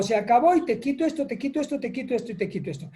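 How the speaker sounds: rapid-fire dad listing punishments; papá que castiga. Acted. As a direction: start high, then rattle it off downhill. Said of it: "el papá le dice". (papá enumerando castigos de corrido)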